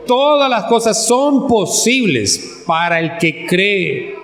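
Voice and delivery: slow, measured declaration of the verse; emphatic verse reading. Acted. Preacher answers his question about faith, slow emphatic scripture. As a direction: draw it out as a firm assurance. Repeats key verse after a pause.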